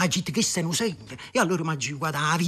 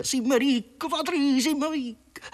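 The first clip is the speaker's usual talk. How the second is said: higher, building excitement; overjoyed; 7 semitones higher, slower than usual. Acted. Vittorio tells his wife they're rich, elated. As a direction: shout the good news with joy.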